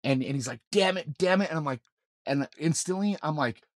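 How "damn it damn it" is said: higher, louder retold cursing; panicked. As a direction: imitate a panicked man cursing urgently. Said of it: "panicked as hell".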